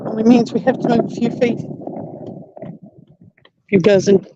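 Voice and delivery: panting, slow words between breaths; winded from hauling a heavy battery. Real, not acted. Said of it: "Excuse me while I get out of breath".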